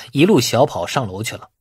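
usual speaking voice

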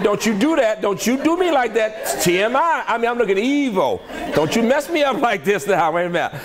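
play-scold your mama, half joking; comic mock outrage at a shocking reveal; mock indignant pleading. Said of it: "And I'm saying".

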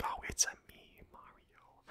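Mario voice. Retold or imitated. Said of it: "my brain's like".

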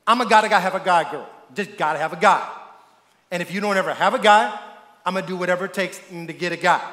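lightly voiced, fast and insistent; gotta-have-a-guy girl. Preacher voicing girl set on getting a guy, mock insistent. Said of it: "what I call gotta have a guy girl".

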